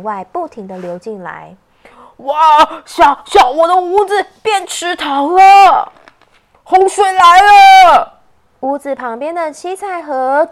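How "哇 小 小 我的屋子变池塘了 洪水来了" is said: alarmed. Acted. House floods.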